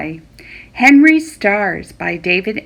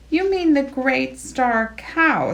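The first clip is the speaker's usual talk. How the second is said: indignant; 4 semitones higher than usual. Acted. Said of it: "said Abigail indignantly".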